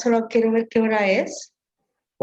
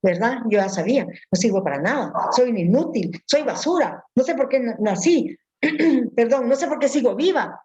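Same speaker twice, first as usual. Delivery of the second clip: mock self-pity; 3 semitones lower than usual. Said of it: "en lugar de decir".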